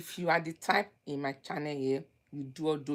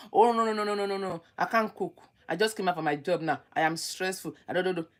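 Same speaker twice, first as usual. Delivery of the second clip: whiny complaining fiancée; faster than usual. Retold or imitated. Mocking the complaining fiancée who won't cook. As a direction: imitate a fussy fiancée refusing to cook.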